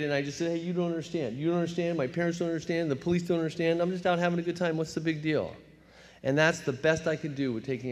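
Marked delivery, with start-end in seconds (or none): 0.5-5.5 mock whining. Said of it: "now I'm crying and I'm afraid".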